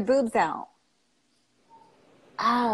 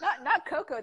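laughing; 4 semitones higher than usual. Real, not acted. Giggling after laughing fit.

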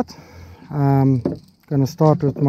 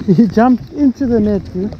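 high and thrilled, still amazed; excited; 6 semitones higher, 4 dB louder than usual. Real, not acted. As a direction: tell your mate, buzzing. Retelling the fish jumping in.

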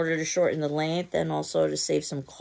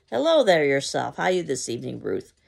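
loud gushing hello; enthusiastic; 6 dB louder than usual. Acted. Mrs. Johnson gushing at Ruth on arrival, loud. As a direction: greet her with over-the-top enthusiasm. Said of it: "decided long ago to be enthusiastic".

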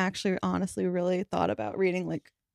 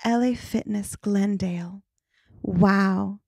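sexy voice; 3 dB louder than usual. Pretend. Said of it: "do it in your sexiest voice".

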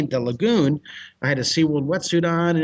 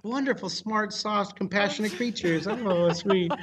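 tag; 5 semitones higher, 4 dB quieter than usual. Acted. Mocks dolphins' sweet reputation, laughing.

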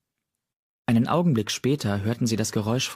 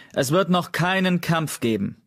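higher, firm order from the high rock; commanding; 8 semitones higher than usual. A narrator's reading. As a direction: lay down the law. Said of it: "befahl er". (Kiefernstern befiehlt bestimmt von oben herab)

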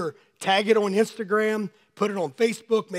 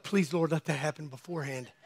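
mock plea; 5 semitones lower, 8 dB quieter than usual. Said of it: "My daughter's like".

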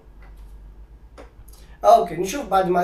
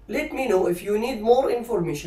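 slow dictation; slower than usual. Shown as a demonstration. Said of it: "slow model sentence".

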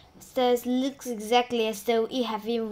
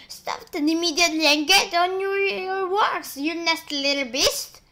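higher, louder harsh command; ordering; 5 semitones higher, 4 dB louder than usual. Acted. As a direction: bark the order at the boy. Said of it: "and Sponge ordered".

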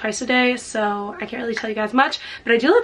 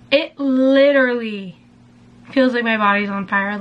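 alarmed; 4 dB louder than usual. Real, not acted. Skin burning from firming cream.

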